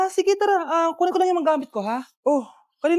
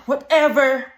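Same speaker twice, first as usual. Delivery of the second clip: snooty dismissal; 2 semitones lower, 3 dB louder, much slower than usual. Acted. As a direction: gasp then a slow, bored whatever. Rich girl dismisses cost. (maarteng pagbalewala)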